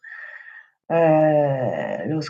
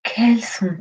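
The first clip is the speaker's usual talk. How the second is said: guided meditation. Acted. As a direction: lead them gently through breath and body, unhurried. Leads breathing and body relaxation.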